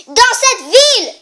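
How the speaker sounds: loud, high, irritated repeat; annoyed. Acted. Oedipus repeating himself, annoyed and loud. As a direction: snap it back at him. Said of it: "Oedipe répétant assez énervé".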